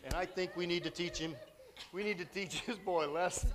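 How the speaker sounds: a hint of swaggering bee gang voice; bees talking. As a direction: play the bees as street toughs plotting. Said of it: "And they're actually talking".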